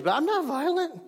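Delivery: high mock-innocent protest; sarcastic. Ironic self-justification after screaming at kids.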